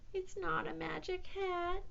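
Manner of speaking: small, high, soft voice; sorrowful squeaky cat; sad admission. A narrator's reading. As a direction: confess it forlornly. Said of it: "he admitted sadly".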